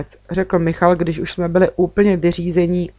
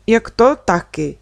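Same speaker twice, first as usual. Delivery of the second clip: podivení; 3 semitones higher than usual. Acted. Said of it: "Podivila jsem se".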